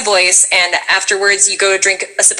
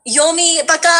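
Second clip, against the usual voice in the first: put-on anime girl voice; 9 semitones higher than usual. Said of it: "I'm gonna do an anime girl voice".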